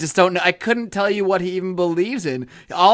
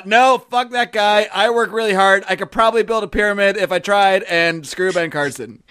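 angry; 3 semitones higher than usual. Retold or imitated. Voicing an angry Egyptian man.

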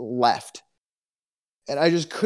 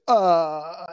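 drawn-out, higher dumbfounded filler; 5 semitones higher, 4 dB louder than usual. Retold or imitated. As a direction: act out being lost for words.

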